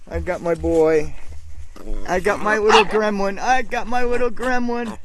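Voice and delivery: dote on the little gremlin; doting pet talk. Real, not acted. Owner holds his rescued chihuahua, high doting pet talk. Holding dog.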